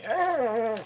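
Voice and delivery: high, loud drawn-out yelp; pained exclamation. Real, not acted. Crafter with hot glue on the fingers, pained yelp. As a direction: yelp in pain, stretched out.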